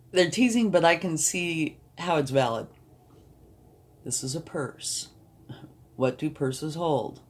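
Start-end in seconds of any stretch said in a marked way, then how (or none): 0.1-2.7 amused, giggling at the universe; laughing. Real, not acted. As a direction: laugh through the words. Laughing at the card drawn.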